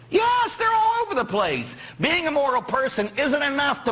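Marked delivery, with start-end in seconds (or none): 0.1-1.8 exasperated high answer. Acted.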